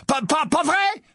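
faltering, stammered question; unsteady voice. A narrator's reading. Ron seeks Harry's support, faltering. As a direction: stammer it, unsure. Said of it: "d'une voix mal assurée".

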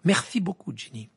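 high, pointed thanks falling away; sour. A narrator's reading. Ron resenting Ginny for telling on him, sour. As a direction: thank her bitterly. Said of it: "dit Ron avec aigreur".

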